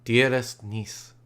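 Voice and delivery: a hint of a grave old father, slowed down; slow fatherly voice. Father comforting his weeping niece, slow and gentle. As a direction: speak slowly and kindly as the father.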